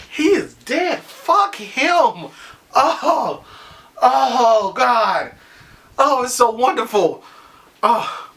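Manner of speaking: high, laughing gloat; laughing with glee. Real, not acted. Fan celebrating Joffrey's death, gleeful laughing. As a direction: giggle through the good news. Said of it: "This one is making me laugh".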